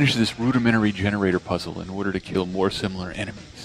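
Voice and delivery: monotone narrator. Retold or imitated. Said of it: "he narrates in his head".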